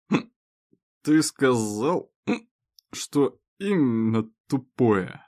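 put-on giggly drunk whisper.

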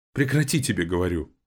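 sister crying out, a touch strained. A narrator's reading. Agata pushes her brother away, half-crying out. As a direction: snap it out with a catch of anguish. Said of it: "С надрывом крикнула она".

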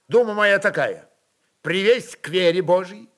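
put-on a young noble bursting with indignation; young and agitated. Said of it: "по-молодому взволнованно заговорил".

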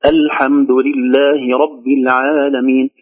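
slow recitation, الحمد begun with a clear hamza; hamza sounded at start. Shown as a demonstration. Teacher beginning the verse afresh, الحمد with its hamza clearly sounded. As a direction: open الحمد on a clean glottal a, unhurried. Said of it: "إذا بدأنا نقول".

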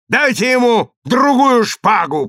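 high, commanding cry; shouted demand. A narrator's reading. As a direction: call out the order forcefully. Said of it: "кричал Вассос".

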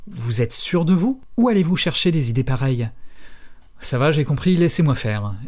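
steady reading of a novel aloud, quotes lightly voiced; story narration. A narrator's reading. Podcast host reading the novel to listeners: audiobook narration. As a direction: read the passage to the listeners like an audiobook.

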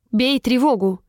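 firm captain's order; commanding. A narrator's reading. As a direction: issue an urgent command, controlled. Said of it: "приказала она".

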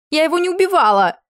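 high, loud denying cry; desperate denial. A narrator's reading. Accused queen to the king, high loud denial. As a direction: protest with all her strength.

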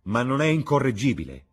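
high, loud exclaimed question; crying out. A narrator's reading. Young guest crying out about his incorrigible friend. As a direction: cry it out in exasperation. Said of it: "gridò Dorian".

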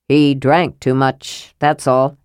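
brushing off the worry with a sigh in the voice; exasperated. Acted.

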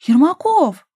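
high, loud cry of protest; flaring up. A narrator's reading. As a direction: exclaim the surname, bristling. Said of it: "вскинулась Дашка". (возмущённый возглас)

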